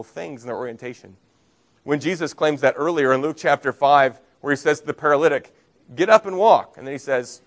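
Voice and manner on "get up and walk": raised, louder voice for a quoted command. Retold or imitated. Preacher quoting Jesus to the paralytic, a raised command. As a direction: call it out as an order.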